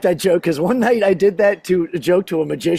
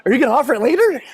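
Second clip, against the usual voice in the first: put-on slightly childlike, higher pleading question; hopeful husband; 4 semitones higher, much faster than usual. Husband asking wife about later, hopeful. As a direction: imitate a man begging like his little boy. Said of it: "I'm like".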